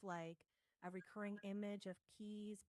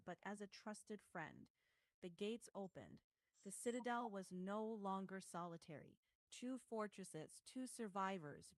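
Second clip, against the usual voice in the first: Oracle's voice. Acted. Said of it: "In the Oracle's voice".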